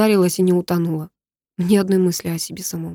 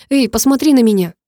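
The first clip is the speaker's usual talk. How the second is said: higher, louder demand to look; sharp call; 5 semitones higher, 5 dB louder than usual. Acted. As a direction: call her to face him. Demanding her attention. (резкий окрик)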